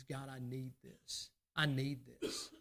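low, soft, slow prayer; hushed earnest plea. Acted. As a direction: pray it under your breath, slowly and deliberately. Quiet prayer explaining knocking.

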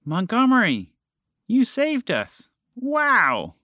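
high, drawn-out cheer of relief. A narrator's reading. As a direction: cheer the hero in a high, elated voice. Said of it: "other cheers came up from below".

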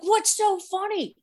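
high, slow and clueless; puzzled, high. Retold or imitated. Confused younger sister asking her laughing brother, high.

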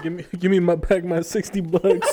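giggling through a pretend demand; mock indignant laughter; laughing mock demand. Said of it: "He said".

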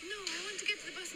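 high, lightly voiced old lady pleading; a hint of a frail old lady; old woman voice. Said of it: "And she was like".

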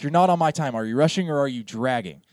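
loud, mock-angry challenge; berating conductor. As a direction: demand it like a bullying bandleader. Voices bullying conductor berating drummer.

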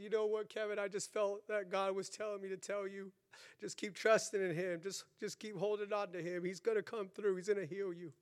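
soft, subdued pastor's counsel; retold gentle reassurance. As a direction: quietly pass on a comforting word. Retells pastor's reassuring words.

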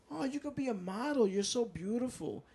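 gushing. Retold or imitated. Girls at salon gushing.

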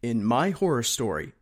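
hammed-up radio announcer promo. Host mocking a show blurb, put-on radio announcer voice. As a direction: read it like a dramatic horror trailer. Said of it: "Radio voice, radio voice".

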